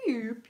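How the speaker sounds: imitated sliding drop sound; sinking boop. Showing viewers a heart sinking, falling boop. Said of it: "your heart goes down".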